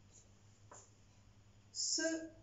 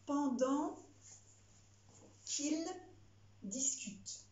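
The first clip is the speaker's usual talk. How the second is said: dictating; 4 semitones higher, slower than usual. Shown as a demonstration. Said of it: "Phrase suivante".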